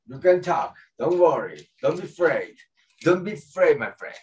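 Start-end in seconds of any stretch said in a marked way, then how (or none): none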